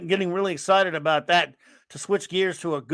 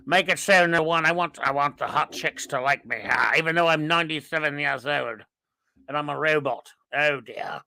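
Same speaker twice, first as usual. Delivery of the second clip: Patrick Stewart; 4 semitones lower than usual. Acted. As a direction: play a hammed-up aged star making demands. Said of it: "Patrick Steele said".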